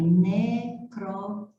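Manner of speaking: "necro-" split into separate syllables. Shown as a demonstration. Teacher dividing a word for the class, syllable by syllable. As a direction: break "necro-" into slow syllables. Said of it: "vamos separar essa sílaba corretamente".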